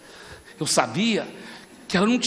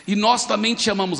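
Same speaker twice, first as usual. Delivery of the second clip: slow, raised declaration; speaking up for a crowd; 2 semitones higher than usual. Retold or imitated. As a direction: proclaim it so a crowd can hear. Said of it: "eu falei bem alto pra multidão ouvir".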